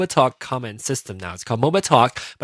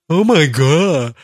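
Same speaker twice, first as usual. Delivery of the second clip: mock gasp; 5 semitones higher, 7 dB louder, slower than usual. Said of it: "so Vincent says".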